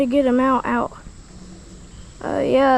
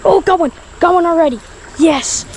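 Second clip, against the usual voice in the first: thrilled whoop; 4 semitones higher, 6 dB louder, faster than usual. Real, not acted. Catches fish on first cast.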